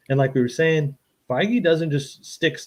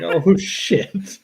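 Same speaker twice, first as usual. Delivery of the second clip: amazed reaction; 5 semitones higher, 5 dB louder than usual. Retold or imitated. Retelling amazed reaction to trailer.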